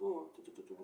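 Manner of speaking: very quiet, almost voiceless whispered mutter. Showing how they talked quietly while passing people: speaking low, barely moving lips. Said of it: "Falando assim".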